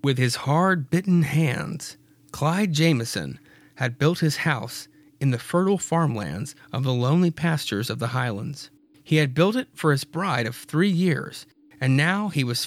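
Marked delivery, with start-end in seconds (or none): none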